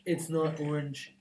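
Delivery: a hint of Trump, indignant; offended presidential bragging; Donald Trump impression.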